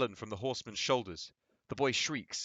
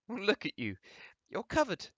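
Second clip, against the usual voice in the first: amused; 10 semitones higher than usual. Acted. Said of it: "Dora, amused".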